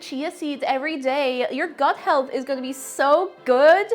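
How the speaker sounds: mock wellness influencer. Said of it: "I'm not being like that".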